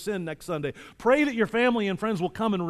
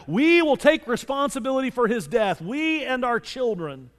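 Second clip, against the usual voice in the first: higher-pitched, half-shouted crowd reply; retold crowd yell; 5 semitones higher than usual. All the people answer Pilate, mild high-pitched yell. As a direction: declaim as the crowd, slowing at the end. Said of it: "all the people yelled back".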